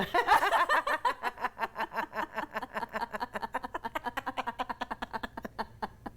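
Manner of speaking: high, soft rattling run of laughter; demonstration laugh in Arabic. Shown as a demonstration. Host proposing a very difficult Arabic laugh, deliberate long laughter. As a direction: laugh on purpose in long fading bursts. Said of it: "On va rire en arabe".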